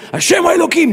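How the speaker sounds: high-pitched imitated cantor's shout; cantor's cry. Cantor calling out the closing verse to the congregation, shouting. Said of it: "והחזן צועק".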